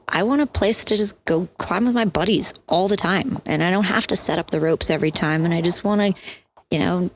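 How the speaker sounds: high, eager buddy voice; excited, rising. Retold or imitated. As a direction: pitch climbing with enthusiasm. Quoting founding climbers' enthusiasm.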